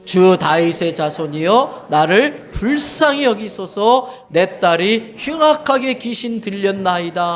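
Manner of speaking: loud, slow congregation reading; crying out together. Acted. Congregation reads the mother's cry aloud, loud and slow. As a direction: cry the plea out slowly, all together. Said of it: "소리질러 이르되".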